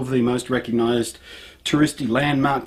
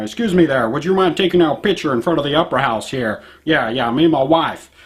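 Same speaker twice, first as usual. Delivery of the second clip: bad American accent. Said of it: "bad accent".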